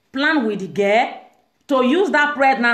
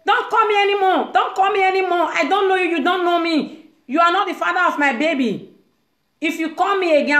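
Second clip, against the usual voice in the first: higher, insistent mock rebuff; angry brush-off; 5 semitones higher than usual. Girl telling ex-boyfriend on phone to stop calling, raised angry rebuff. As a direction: push him away sharply, voice raised high.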